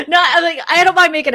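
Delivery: words bubbling with laughter; laughing. Real, not acted. Laughing through her own joke.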